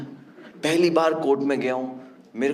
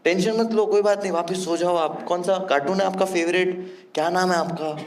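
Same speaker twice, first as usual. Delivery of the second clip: put-on gentle with a child; 4 semitones higher than usual. Talking to a frightened child in hospital, gently. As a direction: soothe a scared kid. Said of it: "तो मैंने बोला".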